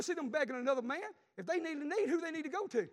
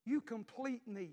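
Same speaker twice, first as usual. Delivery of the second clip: movie line quote; slower than usual. Retold or imitated. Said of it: "that little old girl tells him".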